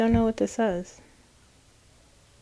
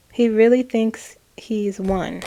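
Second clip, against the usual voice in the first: amused; 4 dB louder, slower than usual. Retold or imitated.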